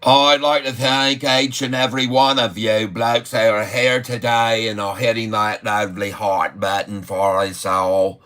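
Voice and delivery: lightly put-on Aussie twang; Australian accent. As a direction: play the excited Aussie market host. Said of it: "typing like the Australians a bit anyway".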